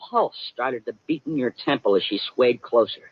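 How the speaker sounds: a hint of a pulp private eye narrating his own story; hard-boiled detective. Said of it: "you are not Sam Spade".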